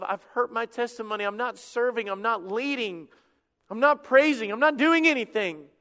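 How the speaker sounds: pleading prayer. Acted. Preacher voices a private prayer.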